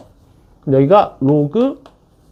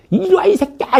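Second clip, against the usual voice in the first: very high-pitched mock yell; loud shouted greeting; 14 semitones higher than usual. Teacher imitating a sushi chef's startling welcome, high-pitched shout. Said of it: "그걸 큰 소리로".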